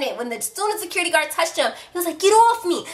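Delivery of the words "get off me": high, loud "get off me"; angry shout. Retold or imitated. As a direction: shove him off with your voice. Angry boy shoves guard.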